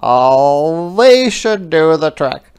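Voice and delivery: a small creature deciding bravely; little hedgehog voice. Acted.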